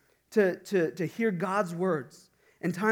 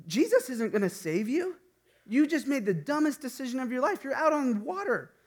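mocking inner doubt, higher; the doubt mocking Peter's choice, rising higher; 6 semitones higher than usual. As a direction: taunt him from inside his head. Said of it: "the doubt started going through his mind".

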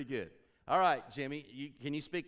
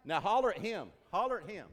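loud urging; 6 semitones higher, 9 dB louder than usual. Real, not acted. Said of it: "urging volunteer".

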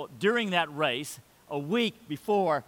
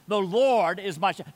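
firm declaration; 3 semitones higher, 5 dB louder than usual. Shown as a demonstration.

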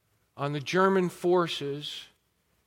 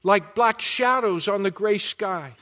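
urgent war reporter; 4 semitones higher, 4 dB louder than usual. Retold or imitated. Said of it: "here are just a few things that he was saying".

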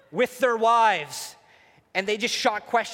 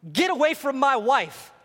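loud, higher husband's order; protective warning; 6 semitones higher, 5 dB louder than usual. Acted. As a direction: warn the intruder off forcefully. Acted protective husband confronts serpent.

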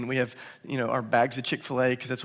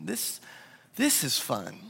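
quiet realization; 5 semitones higher, 8 dB quieter, slower than usual. Retold or imitated. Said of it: "And I thought".

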